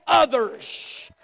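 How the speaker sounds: loud, high, ringing preacher cadence; full-force sermon voice; preaching at full force. Acted. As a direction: drive the point home to the congregation. Pastor preaching on giving.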